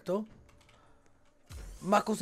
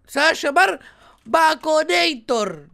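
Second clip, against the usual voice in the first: slow booming announcer name reveal; 4 semitones higher, 5 dB louder, slower than usual. Pretend. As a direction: announce the pizza name grandly, slowly. Naming pizza like announcer. (como un presentador, lento y fuerte)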